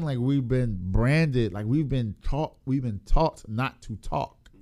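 talking around gum; words slurred by chewing gum. Real, not acted. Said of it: "I gotta get this gum out my mouth".

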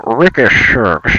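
"Ricky Suggs" with the surname slurred toward "Shurgs"; odd name pronunciation. Pretend. Host introducing a guest, "Ricky Suggs" said oddly. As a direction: announce "Ricky Suggs" with a hushy, r-coloured surname. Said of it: "Stop saying it like that".

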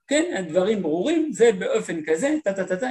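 lightly mimicked French-accented lecturer; a hint of French-accented intonation; imitated French accent. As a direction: imitate a French speaker's cadence, ending in quick ta-ta-ta. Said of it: "עם מבטא כבד, בא ומתחיל לדבר ב".

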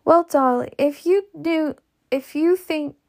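put-on high, faltering fluttery old lady voice; a flustered old aunt pleading weakly; sighing, pleading. A narrator's reading. A flustered aunt sighing to her friend, high and faltering. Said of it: "She sighed and said".

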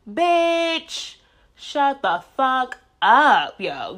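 high, loud exasperated snap; exasperated outburst. Real, not acted. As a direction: cut them off, fed up and loud. Mocking dismissal of resolution talk.

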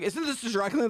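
high, confused Daniel voice; flustered assistant. Retold or imitated. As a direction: sound lost and frantic. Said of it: "I'm like".

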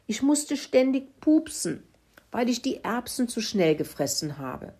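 high-pitched, lightly voiced pig confession; quietly grunting pig. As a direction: make excuses as a sheepish pig. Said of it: "grunzte Kalle leise".

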